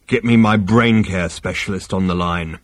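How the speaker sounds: croaking Vogon. Acted. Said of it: "he croaked".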